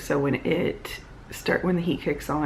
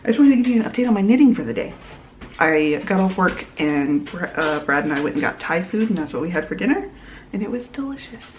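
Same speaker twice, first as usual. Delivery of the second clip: slight lisp from a mouth guard; lispy with mouthguard; 3 dB louder, faster than usual. Real, not acted. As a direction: talk around a mouthguard. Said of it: "I'm lispy because I already put my mouth guard in".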